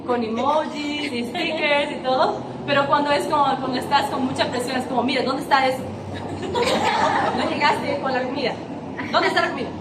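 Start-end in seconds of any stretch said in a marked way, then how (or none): 5.0-9.7 curt, brusque. Retold or imitated. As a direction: play the stressed-out sister snapping, half joking. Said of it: "un poco más como tosca".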